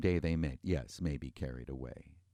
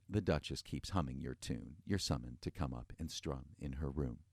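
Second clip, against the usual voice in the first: softer, muttered under the breath; muttering; 3 semitones lower, 5 dB quieter than usual. Acted. The maid quietly muttering the Duchess's summons to Boris. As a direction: passes on the summons half to herself. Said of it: "She muttered".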